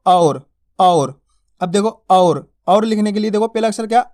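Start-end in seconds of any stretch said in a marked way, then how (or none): 0.1-1.2 और stretched very slowly, au held long; slow drawn-out au. Shown as a demonstration. Teacher stretching the vowel for pupils. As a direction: draw out और, and again. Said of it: "अब लिखेंगे कैसे इसको".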